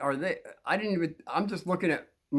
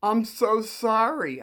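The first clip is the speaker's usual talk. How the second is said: put-on girl's apology; 6 semitones higher, 4 dB louder, slower than usual. Girl apologizes softly in story.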